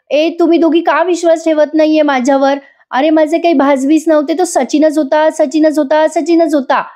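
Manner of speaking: high, insistent repetition; insisting over and over. Acted. Asmita to mother and grandmother who doubt her, insisting high. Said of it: "असं ती दोन चार वेळेला बोलते".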